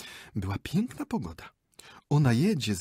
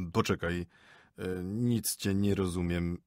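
puzzled husband; 2 semitones lower than usual. Acted. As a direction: grope for the meaning. Husband voiced lower.

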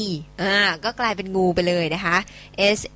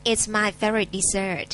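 slow repeat; much slower than usual. Shown as a demonstration. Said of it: "repeats it".

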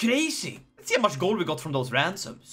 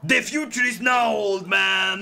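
taunt; 3 dB louder than usual. Acted. Taunting enemy before battle.

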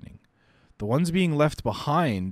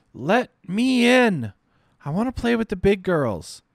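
put-on high pleading child voice; 12 semitones higher, 6 dB louder than usual. Little girl begging the big girls, high pleading voice. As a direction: plead to be let into the game.

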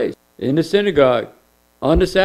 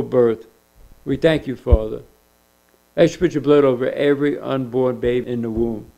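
prayer; 2 semitones lower than usual. Acted. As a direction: pray it gently, tailing off. Pastor prays over the unborn.

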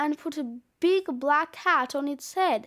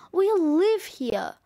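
slow, mildly indignant protest; indignant insistence; 2 semitones higher, slower than usual. Acted. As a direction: stand your ground, a touch raised. Child insists against the snowman.

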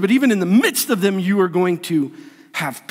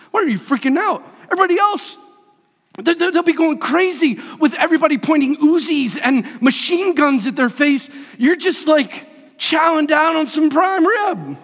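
baffled disbelief; 7 semitones higher than usual. Acted. Baffled onlookers question calm saint.

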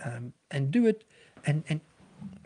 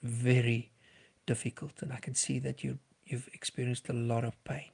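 gentle reflecting; 5 dB quieter than usual. Shown as a demonstration. Counsellor reflecting a suicidal person's pain, soft and caring. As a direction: lay each phrase down gently. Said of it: "you can just reflect on what you're hearing".

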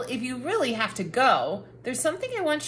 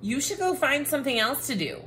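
shooing; 5 semitones higher, faster than usual. Acted. Cranky book shooing the reader.

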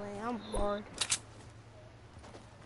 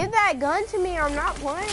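demanding; 5 semitones higher, 4 dB louder than usual. Real, not acted. Demands friend's gun.

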